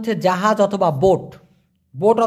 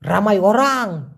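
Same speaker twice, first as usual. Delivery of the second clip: 1 slow demo phrase; slower than usual. Shown as a demonstration. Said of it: "রামাই মানে হলো প্রচুর সংখ্যক".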